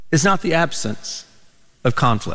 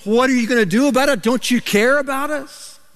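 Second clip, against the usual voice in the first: higher-pitched retold panic, climbing as it goes; mock freaking out; 5 semitones higher than usual. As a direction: plead like alarmed disciples, lightly acted. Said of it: "the disciples are going crazy. They're freaking out".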